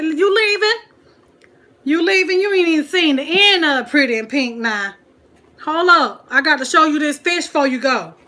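loud, high, urgent call to someone leaving. Real, not acted. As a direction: call after them to stop them going. Calls out to departing viewer.

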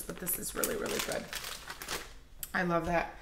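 soft whisper of delight; whispered savoring. Real, not acted. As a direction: hush it like a secret treat. Savoring the scent.

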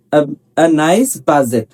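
slow, spaced-out drill sentences. Shown as a demonstration. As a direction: drill each word slowly for the class. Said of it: "teacher drills example". (ধীরে ধীরে অনুশীলন বাক্য)

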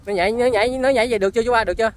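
loud, high, urgent-sounding question; calling out. Real, not acted. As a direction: shout over to check with him. Calls to man during filming. (gọi to, cao giọng hỏi)

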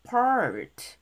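PART drawn out with a barely released T; weak final T. Shown as a demonstration. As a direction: let the T at the end of PART fade. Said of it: "약하게".

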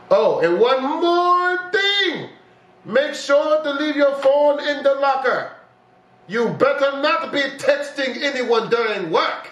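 lightly voiced strict manager laying down rules; stern boss. Boss giving rules in game.

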